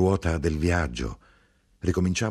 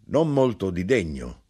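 lightly voiced grinder; 3 semitones higher, 3 dB louder than usual. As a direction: close to the reader's voice, a touch raised. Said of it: "l'arrotino rispose".

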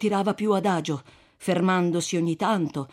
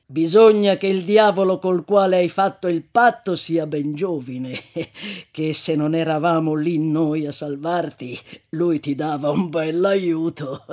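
scornful pity; 6 dB louder than usual. Acted. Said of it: "con una cert'aria di compassione sprezzante".

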